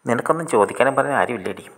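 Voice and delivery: put-on young man jeering at the girl from a rooftop, calling out. A narrator's reading. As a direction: yell it down from the terrace. Young man calls down from terrace.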